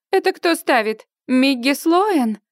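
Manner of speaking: high, indignant question; indignant disbelief. Acted. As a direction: demand who dares outbid her. Rival bidder indignant at auction.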